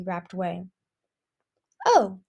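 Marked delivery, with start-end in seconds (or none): 1.9-2.2 louder "oh" of wonder. A narrator's reading. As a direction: marvel aloud. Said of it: "she said with wonder".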